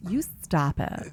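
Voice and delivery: slow, drawn-out mock telling-off; playful scolding. Podcaster showing her co-host a put-on voice, slow mock scolding. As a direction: draw each word out playfully.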